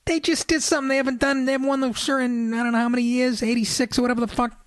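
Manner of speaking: high, fast, worked-up retelling; retelling his rant at his wife, high and fast; exasperated rant. Retold or imitated. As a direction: pile it on in disbelief. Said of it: "I go".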